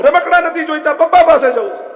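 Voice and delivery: put-on high tearful little boy insisting on his father; child refusing. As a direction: refuse like a stubborn crying child. Lost child refusing toys. (રડતા બાળકની જીદ)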